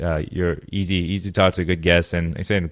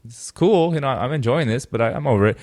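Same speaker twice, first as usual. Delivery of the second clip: put-on higher, offhand kid voice; younger self; 6 semitones higher than usual. Kid shrugging off a game, lightly higher voice. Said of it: "I'm like".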